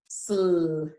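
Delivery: sl, e, d separated by gaps; sound by sound. Shown as a demonstration. Teacher leading children through the sounds, one at a time. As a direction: break sled into its sounds. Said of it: "think about the sounds that you hear".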